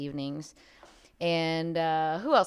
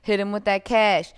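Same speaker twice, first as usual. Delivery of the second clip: hype shout; 4 semitones higher, 7 dB louder than usual. Real, not acted. Hyping up late donors.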